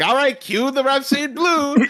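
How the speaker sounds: lightly acted, high-pitched cue call; mock music cue. Co-host mocking musical stereotypes, lightly acted high cue call.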